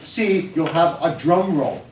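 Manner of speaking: put-on teacher coaching the boy on practice; insistent teacher. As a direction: urge the kid on firmly. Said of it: "He said".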